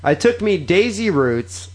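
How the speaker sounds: careful read-aloud, phrase by phrase. Acted. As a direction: read the slang out deliberately. Reads Cockney sentence aloud.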